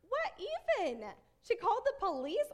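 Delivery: high-pitched, incredulous mock outrage; angry. Mom fuming over the neighbor's call, angry. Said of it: "But I'm angry".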